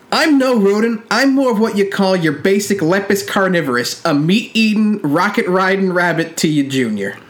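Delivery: mildly acted rebuke from a rabbit hero; lightly voiced indignant Jackson. Jackson rebuking Warto in a read-out quote, lightly voiced indignant rebuke. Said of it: "I'm gonna read this quote from Jackson, who was rebuking Warto".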